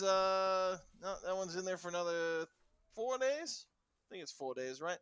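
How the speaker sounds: second guard answers about the prisoner, lightly voiced; a hint of a guard. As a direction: answer like a bored jailer.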